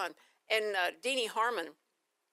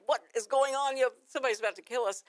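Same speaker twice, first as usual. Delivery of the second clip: put-on alarmed kids; 4 semitones higher, 4 dB louder than usual. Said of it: "they turn around like".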